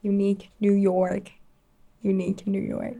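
"Unique New York" mumbled around a pencil; "Unique New York" forced out past a pencil held in the teeth. Shown as a demonstration. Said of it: "practice talking like this".

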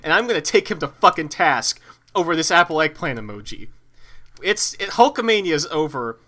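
wrestling promo. Pretend. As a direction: bark it like a wrestler calling out a rival. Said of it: "This is me cutting a promo".

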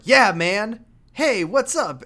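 loud, high casual American bro; American dude. Retold or imitated. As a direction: play a breezy American guy. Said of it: "he's American".

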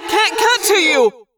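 slow, high, loud shout; yelled. A narrator's reading. Jake shouting to his trapped friends, slow high yell. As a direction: shout it across the chaos. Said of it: "I yelled".

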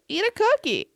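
high, sweet imitation of a nurse. Imitating the gentle nurse offering a cookie, high and sweet. Nice lady voiced in retold story.

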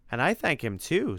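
grateful monster. Acted. Freddy chimes in to thank Timothy, eager gratitude.

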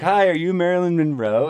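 timid greeting. Retold or imitated. Greeting at the door, retold.

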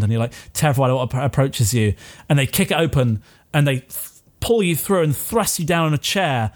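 ordinary talk

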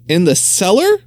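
surprised. Acted. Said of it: "said Clara with surprise".

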